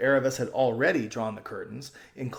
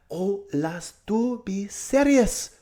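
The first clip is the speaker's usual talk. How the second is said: higher, pressing and hurried; urgent girl; 9 semitones higher, 5 dB louder, much slower than usual. A narrator's reading. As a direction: beg her to act fast. Aravis pleading.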